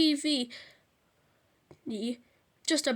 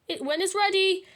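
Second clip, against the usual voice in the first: screaming Dad; 6 semitones higher, 4 dB louder than usual. A narrator's reading. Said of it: "screamed Dad".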